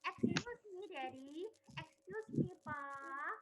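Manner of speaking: soft, measured asking; slowing into a courteous request; polite child's request. Shown as a demonstration. Child asking Daddy for snack money, polite and soft.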